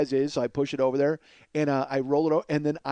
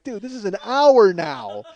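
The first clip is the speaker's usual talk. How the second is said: higher, drawn-out exasperated gripe; exasperated complaint; 4 semitones higher, 4 dB louder, slower than usual. Retold or imitated. Friend griping about an hour's wait, exasperated. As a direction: stretch it out, fed up.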